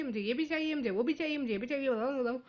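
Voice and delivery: demanding list run together without stops; imitated child's endless wanting; going on and on. Shown as a demonstration. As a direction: keep piling on demands, no full stops. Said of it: "वो बोलती ही जा रही थी".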